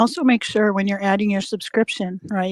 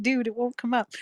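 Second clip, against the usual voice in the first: retold aside, softer and higher; under the breath; 4 semitones higher, 5 dB quieter than usual. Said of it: "said it just like that under my breath".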